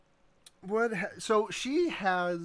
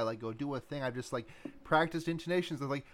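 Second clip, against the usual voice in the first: usual speaking voice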